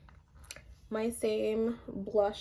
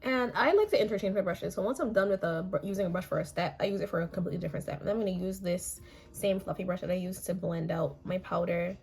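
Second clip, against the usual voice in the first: raspy, hoarse voice from losing it; a real hoarse rasp, like a smoker; 3 semitones lower than usual. Real, not acted. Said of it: "I sound like a smoker".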